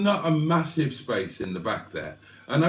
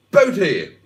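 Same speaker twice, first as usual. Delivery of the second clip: a loud, booming exclamation; exclamatory deep voice; 5 semitones higher, 9 dB louder than usual. Retold or imitated. Reading out Simone's greeting, mock booming exclamation. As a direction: bellow the greeting like a big actor. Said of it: "in such an exclamatory, deep-voiced way".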